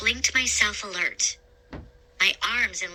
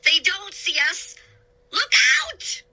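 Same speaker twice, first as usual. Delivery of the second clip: alarmed warning; 10 semitones higher than usual. A narrator's reading. Sailor warning of the coming ship, panicked shout. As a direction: shout the danger. Pepper warns of crash.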